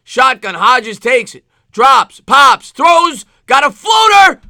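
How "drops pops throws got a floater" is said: rising to a loud, high shout; frantic live play-by-play; excited play call. Real, not acted. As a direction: sell the big moment on the throw. Calling a tense pass play live.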